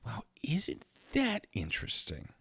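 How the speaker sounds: dry sarcastic whisper, slow; mock amazement, whispered. Sarcastic aside at own mistake.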